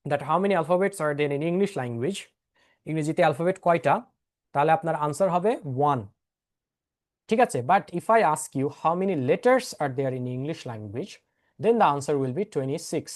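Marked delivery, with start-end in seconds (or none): 0.1-2.2 slow teacher question. Shown as a demonstration. 7.7-13.0 slow emphasized explanation. Shown as a demonstration.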